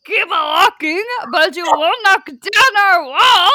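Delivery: loud, high cartoon French taunt; big, slow mock-French jeer; French accent. Shown as a demonstration. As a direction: belt out a hammy French accent. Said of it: "my only accent for the French is".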